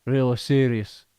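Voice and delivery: serious Yorkshire delivery; Yorkshire accent in the manner of Sean Bean. Shown as a demonstration. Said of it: "you do Yorkshire pretty".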